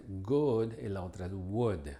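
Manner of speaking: good said with a throaty g, wood with a rounded w and no throat; g versus w contrast. Shown as a demonstration. Teacher contrasting good and wood for learners. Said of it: "estas dos palabras".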